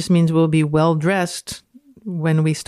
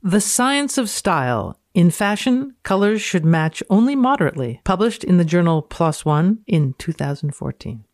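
dramatic reading. Acted.

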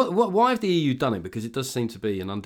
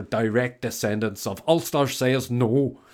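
a hint of a Northern Irish accent on Ulster says no; lightly put-on Belfast accent, no real shift; slower than usual. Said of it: "am I allowed to do that accent".

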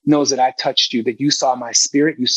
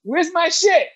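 mock entitled demand; slower than usual.

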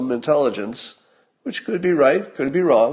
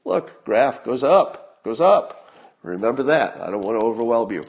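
condescending explainer. Retold or imitated. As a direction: spell it out like to a kid. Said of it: "The only way they can explain it is say".

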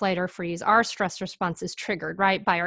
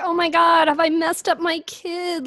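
higher, louder mock panic; imitating a fretting parent, pitched up high; worried parent; 8 semitones higher, 5 dB louder than usual. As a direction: act out a parent's alarmed self-doubt. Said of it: "this is where everybody gets worried".

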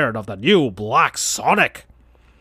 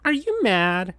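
higher, softer timid question; Tails' voice; 6 semitones higher, 3 dB quieter than usual. Acted. Tails worried about Sonic, high and soft. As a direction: ask carefully.

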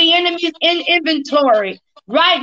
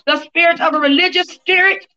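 laying a curse. Real, not acted. Casting out spirits.

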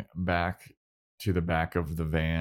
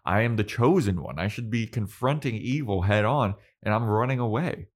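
higher-pitched indignant tirade, punching key words; exasperated rant; 4 semitones higher than usual. Retold or imitated. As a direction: rant in mock frustration at yourself. Buffy rants at Dawn, acted.

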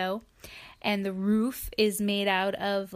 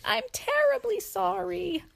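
polite sorry; 9 semitones higher than usual. Acted. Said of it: "she says".

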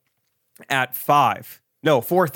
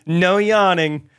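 slow, high, lilting "No yawning"; the gate agent's sing-song ban on yawning, drawn out; mock agent; 5 semitones higher, 3 dB louder, much slower than usual. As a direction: stretch it out like a sweet scolding.

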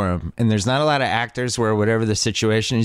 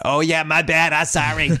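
mock JFK-style Boston accent; 4 semitones higher than usual. Actor apologizing to his director for forgetting, in a mock JFK accent. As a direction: answer with a slightly raised, hammed-up JFK accent. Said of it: "Did the J F K accent".

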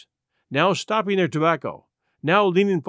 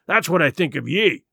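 forceful pirate threats; wrathful parting curse, punched out; furious pirate Silver; 3 dB louder than usual. Acted. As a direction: vow revenge like an enraged buccaneer.

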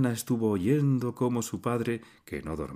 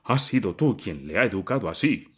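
yelled; 4 dB louder than usual. A narrator's reading. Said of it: "le gritó Siriayev".

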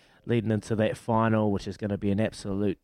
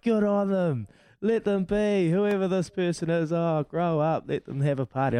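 high mock voice of fans online; hammed-up higher voice for the comment readers; mimicking online commenters; 7 semitones higher than usual. Host reading fans' online comments to co-host, mock-high voice. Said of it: "they're like".

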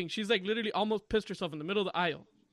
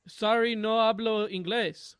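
slow, mock-apologetic Spanish; feigned language barrier; 3 dB louder, slower than usual. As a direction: pretend you speak no English, drawn out. Mom feigns not speaking English.

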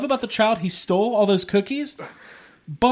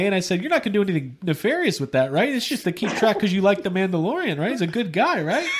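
chatty, lightly hammed-up Canadian; Canadian mechanic; faster than usual. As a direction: naive Canadian checking with "eh" and "right?". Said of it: "Yeah, they're Canadian".

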